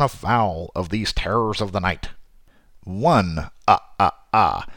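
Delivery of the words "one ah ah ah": vampire count voice. Acted. Counting vampire facts, Count style.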